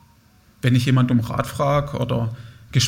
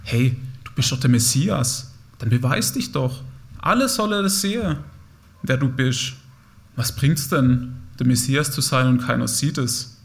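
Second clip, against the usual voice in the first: voice of approval. Acted. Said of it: "die Stimme der Anerkennung".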